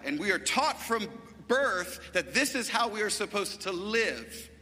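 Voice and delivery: punchy pulpit delivery, key words stretched; emphatic preaching. Real, not acted. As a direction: preach it with rising conviction. Preaches with rising force.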